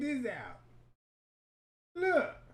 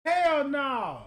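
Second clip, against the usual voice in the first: emphatic; 2 semitones higher, 5 dB louder than usual. Real, not acted. Repeats louder.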